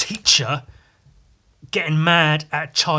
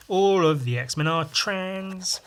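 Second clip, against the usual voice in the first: mock-serious statement; 6 semitones higher, much slower than usual. Real, not acted. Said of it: "it sounds like I'm taking the piss".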